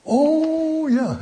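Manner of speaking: high, bright "Oh, yeah" of sudden understanding; student finally getting it; dawning realisation. Acted. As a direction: let the penny drop. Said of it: "And the light comes on".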